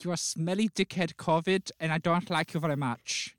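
put-on accent, vaguely Dutch; mock insult in a muddled foreign accent; unidentified comic accent. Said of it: "I don't know what accent this is".

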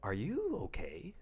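mock incredulous questioning, slow and drawn out. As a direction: stretch it out in exaggerated disbelief. Mock incredulous reply to stranger.

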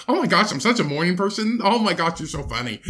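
put-on gushing valley girl Vicky, lightly done; mock Vicky. Friend parodying an overeager gushing acquaintance. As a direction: chirp like a bubbly morning person. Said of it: "Vicky's always that person who's just like".

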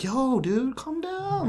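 high, soft imitation of a calmer-downer; mock placating. Co-host imitating opponents in an argument, mock placating. Imitates people telling him to calm down.

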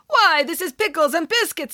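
high-pitched, affronted piranha character voice; rude, ungrateful piranha. A narrator's reading. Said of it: "very rude and ungrateful".

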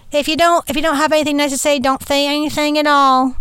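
a gentle hint of a sweet cartoon bunny scolding; Thumper from Bambi. Quoting the rabbit to viewers asking for reviews, light cartoon voice. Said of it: "Thumper from Bambi".

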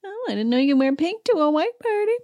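put-on catty Dorit voice; catty Dorit impression. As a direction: sniff it out like a snob. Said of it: "starts talking smack in her confessional".

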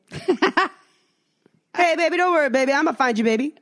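high hammed-up sleazy guy cooing baby; man's voice on phone. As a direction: coo it like a creepy stranger on the phone. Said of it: "I hear a man voice on the phone".

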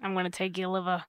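low, creepy monster threat; spooky ghost voice. Pretend. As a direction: menace the kids like a ghost. Voicing spooky folklore ghost.

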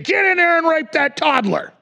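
loud, high barked order; brutal handler. Retold or imitated. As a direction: snap the command like a cruel captor. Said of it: "that's how they talk to 'em".

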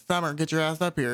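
lightly put-on country accent; a hint of rural country accent. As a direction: summon a child in a mild country accent. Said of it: "sound like they're from the country".

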